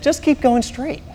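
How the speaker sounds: husband ignoring the GPS, slow and stubborn. Retold or imitated. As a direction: dig in slowly and quietly. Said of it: "like a man".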